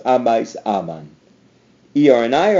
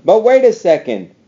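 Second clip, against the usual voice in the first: mock surprise; 7 semitones higher, 4 dB louder than usual. Teacher feigns a sudden catch.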